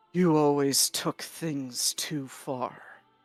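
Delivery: put-on very low voice. Voicing Kurgan as he speaks up, in a low Kurgan voice. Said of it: "Me trying to drop my voice as low as possible".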